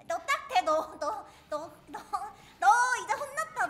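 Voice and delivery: 크게 높여 지르는 위협; 상대를 윽박지르듯 소리쳐; 위협하는 외침. Real, not acted. 게임 상대에게 위협하는 외침. (게임 속 상대를 크게 윽박지르기)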